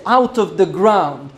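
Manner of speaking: "ground" given deliberate weight at the phrase's end; stress on ground. Shown as a demonstration. Preacher pointing congregation to Lamech's wording, stress on "ground". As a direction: lean gently on "ground", letting it fall. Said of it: "There's an emphasis on the ground".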